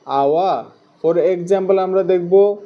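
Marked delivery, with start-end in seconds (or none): 0.1-0.6 teacher modelling "আওয়া" as a falling ah-wa glide; low-falling "আওয়া", ah into wa; "আওয়া" sound demonstrated. Shown as a demonstration. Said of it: "ও ডাব্লিউ এর উচ্চারণ হয়".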